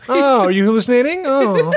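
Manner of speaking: high mocking baby voice; baby talk. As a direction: coo it like to a toddler.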